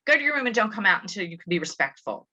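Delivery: quick stern order. Shown as a demonstration.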